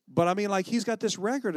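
incredulous. Retold or imitated. Still incredulous about the record.

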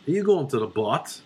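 light Belfast lilt, rising question; Belfast accent. Shown as a demonstration. Clubgoer asking about The Bot, Belfast accent. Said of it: "There we got the accent".

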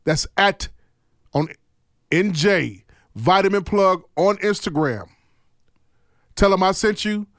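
slow, spaced-out ad read; sponsor plug. Acted. Host sending listeners for a free health pack, slow ad read. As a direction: deliver the promo phrase by phrase, with pauses.

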